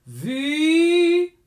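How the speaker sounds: scooped V. Shown as a demonstration. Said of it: "instead of".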